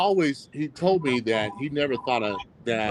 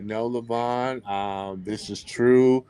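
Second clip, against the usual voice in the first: slow, easy, unhurried reassurance; imitating the chairman's calm, cool reply; 3 semitones lower, slower than usual. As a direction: settle him down slowly. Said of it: "real calm and cool".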